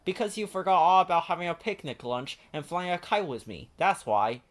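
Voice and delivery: high, bright puppet-like Ernie; eager Ernie calling his friend. Acted. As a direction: lift into a cheerful high Ernie. Ernie's voice in story.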